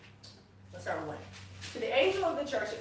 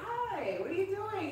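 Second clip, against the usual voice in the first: put-on eager girlfriend; 12 semitones higher, slower than usual.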